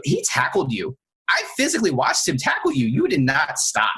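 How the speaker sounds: emphatic, pitch leaping mid-rebuke; retold officer rebuke. Officer tells the tackled suspect what he saw, emphatic rebuke. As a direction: lay down the facts as an exasperated officer.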